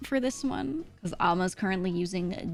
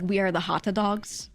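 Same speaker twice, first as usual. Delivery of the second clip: tag English accent. Shown as a demonstration. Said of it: "say it with an English accent".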